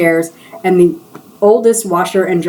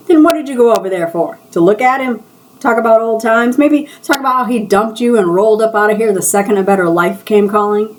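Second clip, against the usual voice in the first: higher, pointed teasing questions; needling taunt; 4 semitones higher than usual. Acted. Coworker taunting her about her ex, high needling tone.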